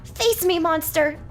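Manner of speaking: high, loud charging shout; battle cry. Acted. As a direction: yell the charge. Knight charges the monster.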